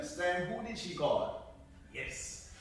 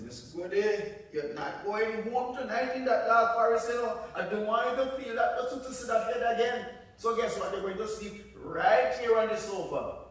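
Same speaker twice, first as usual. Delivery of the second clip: higher and louder, fussing grandma; insistent grandma; 6 semitones higher, 6 dB louder than usual. Acted. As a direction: firmly keep her home for the night. Grandma insists she stays.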